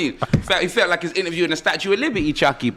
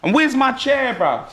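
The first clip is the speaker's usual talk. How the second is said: mock demand; 4 semitones higher, slower than usual. Mock demand for promised chair.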